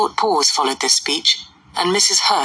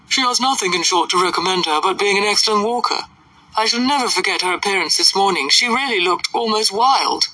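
lightly voiced scornful lady; slightly lifted, gossipy disapproval; a touch of snobbish disdain; disdainful society lady; 2 semitones higher than usual.

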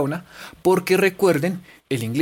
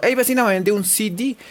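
customer calling neighbour; 6 semitones higher than usual. Shown as a demonstration. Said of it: "Así, como".

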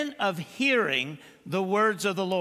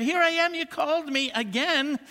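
put-on eager boy; 7 semitones higher than usual. Boy Samuel answers Eli eagerly.

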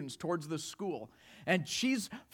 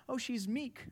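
soft, higher-pitched pitying imitation; mock condescension; 5 semitones higher, 7 dB quieter than usual. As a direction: lightly mimic onlookers underestimating her. People's condescending view acted out.

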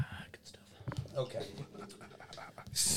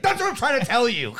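high, loud fed-up clerk; mock yell of total frustration; exasperated punchline; 6 dB louder than usual. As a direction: burst out in acted exasperation.

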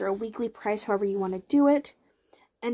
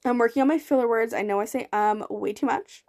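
speaking through hiccups. Real, not acted. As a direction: hiccups breaking into the words. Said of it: "Excuse me, I have hiccups".

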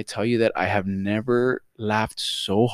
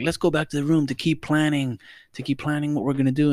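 higher, quick mock friend voice; friends urging; 6 semitones higher than usual. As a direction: friends pushing to keep planning, lightly voiced. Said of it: "they're like".

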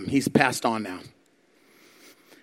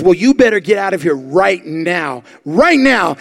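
loud warning; 3 semitones higher, 6 dB louder, slower than usual. Retold or imitated. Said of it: "He says".

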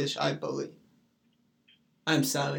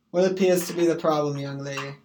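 mock officer; faster than usual. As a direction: rattle it off like a cop at a traffic stop. Redone as an official, loud.

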